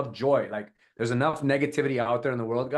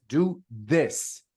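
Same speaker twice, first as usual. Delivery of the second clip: separate, weighted "this"; stress on THIS. Shown as a demonstration. Coach demos emphasis to camera, stressing "this". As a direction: set "this" apart and lean on it. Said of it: "emphasis on this".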